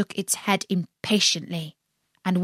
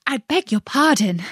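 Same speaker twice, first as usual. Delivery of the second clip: humble; 6 semitones higher than usual. A narrator's reading. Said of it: "said Alice very humbly".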